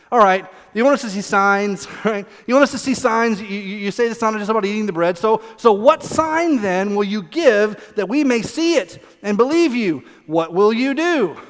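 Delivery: acted insistent crowd spokesman; pushy, unsubtle demand. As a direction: press the demand like a wheedling child. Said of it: "When you read it like this, it, it sounds like a toddler".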